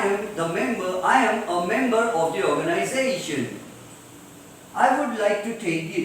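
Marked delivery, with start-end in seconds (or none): 2.5-3.6 "organization" with ZA lifted and lengthened; stressed syllable before -tion. Shown as a demonstration. Teacher using it in an example, stress on ZA in "organization". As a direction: land firmly on ZA in "organization". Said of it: "So how do we pronounce it?".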